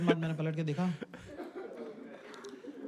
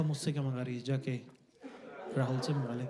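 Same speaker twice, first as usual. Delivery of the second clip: smug, low-key comeback, a touch lower; cool deadpan comeback; 4 semitones lower than usual. Retold or imitated. Husband smugly refusing his wife, cool and low. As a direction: deliver it like a cool film hero, mildly. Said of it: "full John Abraham look".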